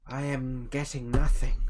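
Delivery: scared whisper. Acted. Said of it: "I'm scared".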